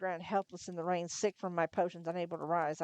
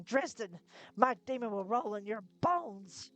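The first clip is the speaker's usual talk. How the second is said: pained threat; 4 semitones higher, slower than usual. Acted. Image in pain, cursing.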